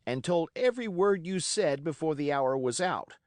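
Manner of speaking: put-on a boy's bold, racing challenge to pirates; excited defiance. A narrator's reading. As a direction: fling it at them all, fired up and fearless. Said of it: "by this time I was quite excited".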